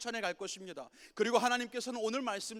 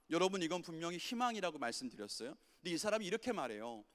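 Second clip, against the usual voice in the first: ordinary delivery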